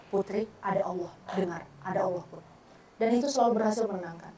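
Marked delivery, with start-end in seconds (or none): 0.1-2.4 softer, calming words to herself; soothing self-talk. Shown as a demonstration. Speaker calming herself in a crisis, softer and soothing. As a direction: hush your own panic. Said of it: "saya tepuk dada saya".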